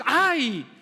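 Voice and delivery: hammed-up grumbling believer; whiny complaint. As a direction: sulk like a spoilt child. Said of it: "y tú dices".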